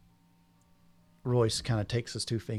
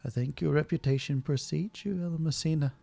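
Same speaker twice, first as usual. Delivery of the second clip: lightly voiced noblewoman; 5 semitones higher than usual. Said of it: "La Donna D'Amore speaks up and says".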